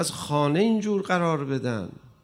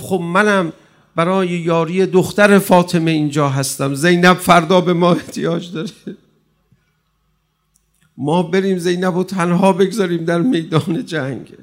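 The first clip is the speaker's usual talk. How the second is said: firm reply; 5 dB louder than usual. Acted. Habib's wife answers him firmly.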